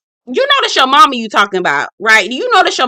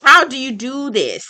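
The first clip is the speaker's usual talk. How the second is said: incredulous; 5 semitones higher than usual. Retold or imitated. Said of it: "I said".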